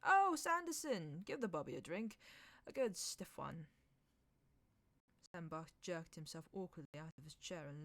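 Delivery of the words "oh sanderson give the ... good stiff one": calling out. A narrator's reading. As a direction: call across the room. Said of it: "calling to one of his young men".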